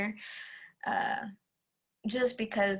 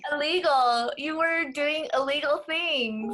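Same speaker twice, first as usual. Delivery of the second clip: higher and louder, a playful gasp of scandal; mock shock; 5 semitones higher, 5 dB louder, slower than usual. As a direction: pretend to be scandalized by a friend. Teasing friend over illegal fireworks.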